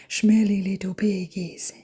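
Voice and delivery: slow, drawn-out cutesy talk to pets; playful pet talk. Pretend. Owner reacting to guinea pigs' blankets, slow playful pet talk. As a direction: stretch it out as if teasing little animals.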